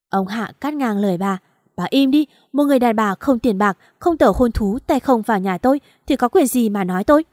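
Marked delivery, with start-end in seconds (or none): 1.8-7.2 husband yelling his wife into silence; angry shout. Acted. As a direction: shut her down hard.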